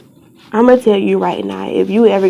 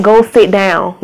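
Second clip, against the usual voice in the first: firm parental order; slower than usual. Real, not acted. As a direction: tell them off without raising your voice much. Breaks off to order a child.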